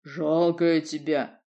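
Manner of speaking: slow, calm odd voice; unperturbed. Acted. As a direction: say it evenly, unbothered. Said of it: "невозмутимо повторила толстушка".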